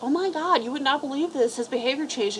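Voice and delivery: imitating an owner who can't believe the change; mock amazed owner. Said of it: "they're like".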